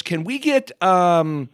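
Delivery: lightly voiced wife. Wife orders shots from Dublin bartender, slow innocent voice. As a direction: order it slowly, sweetly clueless. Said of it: "she goes".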